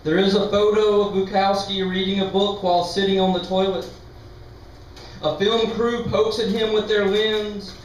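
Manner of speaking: measured poem recital, line by line; steady, deliberate literary reading; poetry reading. Real, not acted. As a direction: read your poem out to an audience. Reads own poem aloud.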